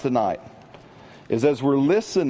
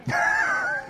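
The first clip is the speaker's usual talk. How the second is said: high laugh. Real, not acted. Laughs at own joke.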